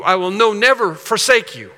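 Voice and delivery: "never" punched in "I will no never forsake you"; emphatic promise. Acted. Preacher quotes God's promise never to forsake, emphatic. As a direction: drive home "never", then land firmly on "forsake you". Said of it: "That's an emphatic statement".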